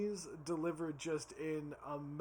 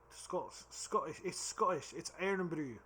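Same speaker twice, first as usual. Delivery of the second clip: rough attempt at a Scottish accent; drunk Scottish accent; 3 dB louder than usual. Shown as a demonstration. Unsure how to say Irn-Bru, attempted Scottish accent. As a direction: put on a tipsy Scottish accent. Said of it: "my drunk Scottish accent is not great".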